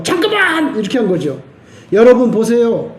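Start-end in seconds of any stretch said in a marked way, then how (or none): 0.0-0.8 higher cry. Pretend. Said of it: "소리를 크게 질러가지고".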